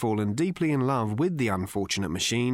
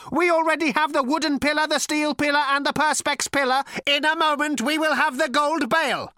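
ancient robot with a cultured rasp; cold, sleek machine voice; cold lifeless robot; 5 dB louder than usual. A narrator's reading. Robot's character voice.

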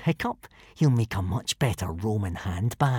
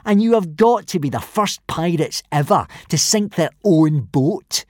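higher, scornful sing-song sneer; drawled taunt; 7 semitones higher than usual. A narrator's reading. Bully ridiculing Hiccup before the boys, drawling mockingly. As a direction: draw out the ridicule. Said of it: "drawled Snotlout".

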